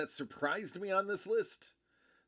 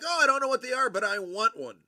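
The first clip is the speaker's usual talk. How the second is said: high, loud eager imitation; Kate; 8 semitones higher, 9 dB louder, faster than usual. Streamer retelling a keen request for Super Bowl squares, imitated high and loud. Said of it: "and Kate was like".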